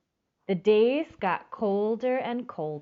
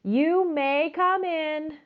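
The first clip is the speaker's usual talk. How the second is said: kindly invitation; 8 semitones higher, slower than usual. Acted. Grandma invites the elephant.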